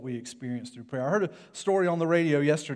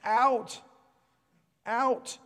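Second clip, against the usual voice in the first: high, mock toddler wail; wailing baby; 7 semitones higher, 4 dB louder, much slower than usual. Imitating a crying child in the car seat, mock wail. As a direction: cry it out like a child, each word alone. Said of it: "baby that's crying, wailing, going".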